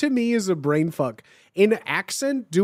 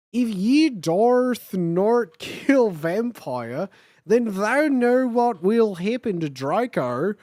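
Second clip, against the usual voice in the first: put-on offensive Australian accent; 3 dB louder, slower than usual. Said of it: "the most offensive Australian accent".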